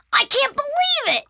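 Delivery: very high, loud squeal; overjoyed disbelief. Acted. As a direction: shout it in pure delight. Arthur overjoyed by reward.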